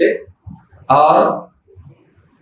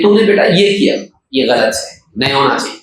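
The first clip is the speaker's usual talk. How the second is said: calm correction; 4 semitones lower than usual. Shown as a demonstration. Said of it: "mistake پہ بات کیجیے آپ".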